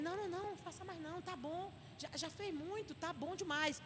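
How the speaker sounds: soft, hushed reassurance; soothing. Acted. Church member calming a stressed brother, soft soothing. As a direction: gently talk them down.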